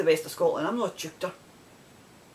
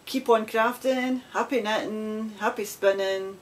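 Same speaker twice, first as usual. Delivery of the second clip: cheery sign-off; 4 semitones higher, slower than usual. Real, not acted.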